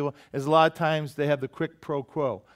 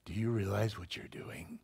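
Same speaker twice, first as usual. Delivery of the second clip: counsel voice; 6 semitones lower, 10 dB quieter than usual. Retold or imitated. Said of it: "I love what this person said".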